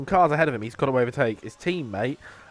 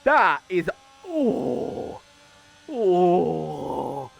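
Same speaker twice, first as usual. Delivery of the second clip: excited; 9 semitones higher, 4 dB louder, much slower than usual. Real, not acted. Reacting to a great overtake.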